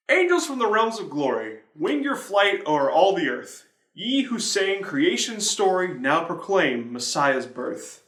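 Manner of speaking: slow, solemn reading of a hymn verse; hymn recitation. Acted. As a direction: lift the words like a carol.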